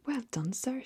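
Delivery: high, delighted cheer; excited shout. A narrator's reading. Old Duke cheering the pelican, excited high shout. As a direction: hop about with joy as you praise. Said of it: "shouted the Duke, hopping about with excitement".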